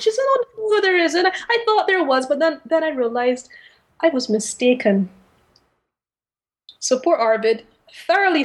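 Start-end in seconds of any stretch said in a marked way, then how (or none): 0.0-5.1 high-pitched, retold caller voice; airy denial. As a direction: brush it off in a high voice.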